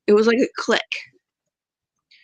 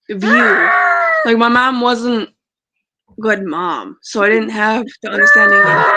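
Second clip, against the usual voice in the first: voice breaking. Real, not acted. Emotional, voice breaking.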